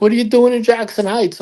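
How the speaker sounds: mock incredulous dad. Dad asking why he is there, mock disbelief. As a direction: play the dad baffled.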